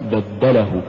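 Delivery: بدله with a gentle push on د; light pulse on دَّ in بدله; joined بدله, ل not pushed; correct word. Shown as a demonstration. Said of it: "دفعنا بحرف الدال دفعة لطيفة".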